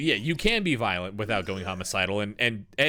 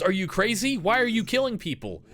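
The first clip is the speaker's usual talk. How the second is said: alarmed James; 11 semitones higher than usual. Retold or imitated. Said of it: "when James goes".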